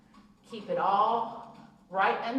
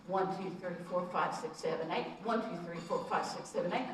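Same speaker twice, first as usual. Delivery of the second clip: quicker counting to eight; faster count; 3 semitones lower, 5 dB quieter than usual. Shown as a demonstration. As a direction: count it through faster, keeping the beat. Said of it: "See, you speed it up".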